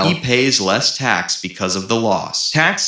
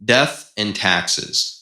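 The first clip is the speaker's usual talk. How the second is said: slow solemn; 2 semitones lower, much slower than usual. Real, not acted. Solemn proverb delivery.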